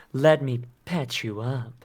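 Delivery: slow put-on character voice; slow, mock-helpful character line. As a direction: play along in a drawn-out game voice. Playing along as game character.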